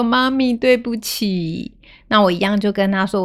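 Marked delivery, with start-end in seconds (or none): 0.0-1.7 tearful apology. Retold or imitated. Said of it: "她又哭着走向我".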